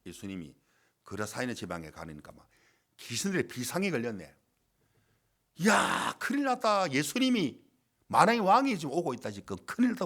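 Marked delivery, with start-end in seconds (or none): 5.7-10.1 higher-pitched mock panic; alarmed demons. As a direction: act out demons raising the alarm. Demons alarmed at Jesus approaching. (다급하게 놀란 귀신 흉내)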